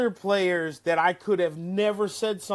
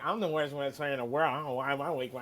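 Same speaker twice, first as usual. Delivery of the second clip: mocking his whine; 2 semitones lower, 5 dB quieter than usual. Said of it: "and I go like".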